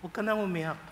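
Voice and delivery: soft, hushed reassurance; gentle comfort. Retold or imitated. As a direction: softly soothe her to stop crying. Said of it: "Siguro ang sabi ni Jesus".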